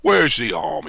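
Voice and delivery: low, loud, sulky grumble. A narrator's reading. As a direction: sulk it out, pitch dropped. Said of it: "very sulky".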